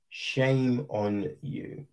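slow, soft, low "Shame on you"; low disappointed scold. Acted. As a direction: drag out "Shame" quietly, like a let-down parent. Repeated rebuke to FIFA.

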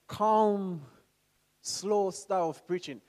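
slow, drawn-out, measured delivery; calm preaching style. Shown as a demonstration. Preacher showing the congregation his preaching style, calm and slow. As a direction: stretch the words calmly and unhurriedly. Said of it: "I might have this calm, slow style".

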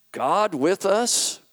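can't believe what you just read; disbelief. Acted. Satan stunned by the name in the book, slow and disbelieving. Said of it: "spoke in a tone of disbelief".

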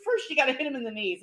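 Pesci instructing. Retold or imitated. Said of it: "he goes".

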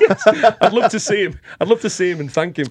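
laughing. Real, not acted. Laughing at host's joke.

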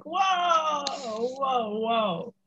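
drawn-out, falling whoas; stunned whoa. Acted. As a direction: let each whoa stretch out, acting stunned. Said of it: "It's just like".

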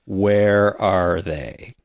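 slow, drawn-out zombie rasp. Retold or imitated. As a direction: moan it like a shambling zombie. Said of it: "you can sort of hear one of the zombies say".

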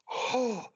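high puff of breath; mimed charging noise. Retold or imitated. Showing brother charging at full speed, imitated huff.

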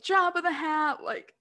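talking through a burp; a burp slips out mid-sentence. Real, not acted. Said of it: "I'm burping".

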